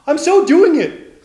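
high, loud, drawn-out triumph; triumphant. A narrator's reading. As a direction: shout it slowly with glee. Tilly breaking free.

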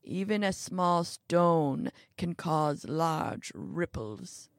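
lightly voiced old man, slow and deliberate; understated grave elderly lecture; lecturing old man. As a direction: spell out the warning word by word.

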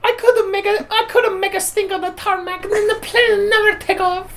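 high, teary mock wail; hammed-up crying rant. Mock anguished wail continues.

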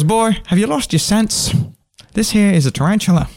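hammed-up country handler; folksy scolding. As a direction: scold the fool. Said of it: "He goes".

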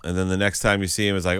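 ordinary talk

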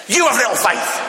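imitated wrathful voice of God; mock angry voice. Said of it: "we give God an angry voice".

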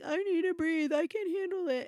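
put-on high child's voice, calming herself; little girl voice. Mother voicing her daughter calming down, high child voice. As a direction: sound like a small girl self-soothing. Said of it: "she'll be like".

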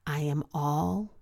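slow, deliberate self-affirmation; speaking an affirmation into the mirror, slow and sincere. Shown as a demonstration. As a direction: say it to your own eyes, slowly. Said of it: "say the statement".

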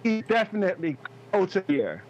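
choppy call audio; bad connection dropping words; breaking up. Real, not acted. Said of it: "You started breaking up at the end".

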